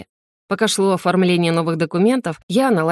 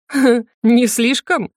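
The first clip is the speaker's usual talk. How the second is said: chuckling; 4 semitones higher, 3 dB louder, much slower than usual. Acted. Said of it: "хохотнула она".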